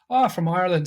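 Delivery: lightly attempted Irish accent; put-on Irish. Pretending to be Irish for Scottish hoodlums, put-on Irish. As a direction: bluff it in a makeshift Irish accent. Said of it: "Drew had to speak Irish".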